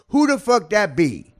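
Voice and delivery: high, loud, drawn-out mimicry; imitated loud woman. Comedian quotes the clerk's reaction, imitated loud disbelief. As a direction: stretch it out as the incredulous woman. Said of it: "That's what she said".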